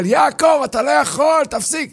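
high, urgent yelling; crowd shouting. Acted. Bystanders yell at Jacob to stop, high alarm.

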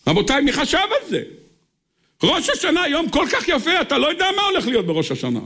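high-pitched, exclaiming disbelief; amazed preaching. Acted. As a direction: preach it in astonishment, starting very high.

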